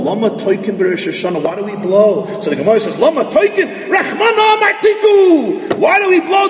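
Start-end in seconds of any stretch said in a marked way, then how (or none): 3.0-5.8 high, ringing shouted quote; high shouted Talmud proclamation. Retold or imitated. Gemara quote shouted in drama. 5.8-6.5 high, shouted why do we blow; preacher shouting the question high. Retold or imitated. Same question shouted in drama.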